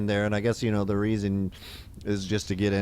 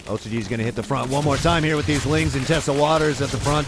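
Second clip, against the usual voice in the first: louder, urgent live attack call; excited play-by-play; 3 semitones higher, 5 dB louder than usual. Real, not acted. Game caster calling an attack on the front, excited. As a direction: call the attack as it happens, voice rising in force.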